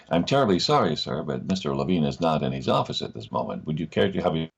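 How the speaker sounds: imitated American telephone operator; polite American switchboard lady; American receptionist. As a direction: put on an American accent, apologetic on the phone. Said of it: "the lady ... on the other line in America".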